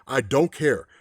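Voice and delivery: lightly voiced cold gunslinger; cold refusal. Man in white coldly refuses.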